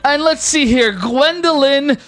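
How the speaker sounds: breezy host reassuring guests; flamboyant god voice. Acted. Rex keeps greeting players.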